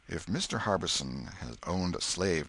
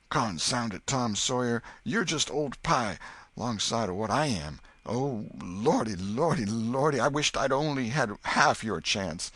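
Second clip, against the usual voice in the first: put-on boy lamenting to his friend, higher and louder; wailing boy; 7 semitones higher, 5 dB louder than usual.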